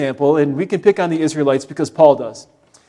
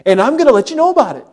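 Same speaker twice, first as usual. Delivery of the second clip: grumbling complaint; 6 semitones higher, 4 dB louder than usual. Retold or imitated. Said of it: "that is actually what grumbling is".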